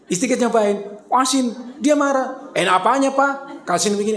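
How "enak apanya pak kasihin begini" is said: mildly indignant retort as an acted wife; mock annoyed. Wife tastes salty dish after husband praised it, mock annoyed. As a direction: play a touch of irritated disbelief. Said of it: "dia malah marah dia".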